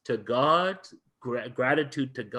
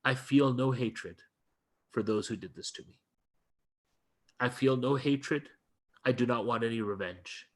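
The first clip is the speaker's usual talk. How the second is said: calm, quiet; 4 dB quieter than usual. Retold or imitated. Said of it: "how calm he was".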